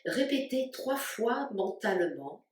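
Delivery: calm, spacious delivery with long pauses between phrases; guided meditation. Real, not acted. Yoga teacher guiding listeners to stay awake while the body sleeps, guided meditation. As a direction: lead them unhurriedly into rest, phrase by phrase. Leads a yoga nidra relaxation.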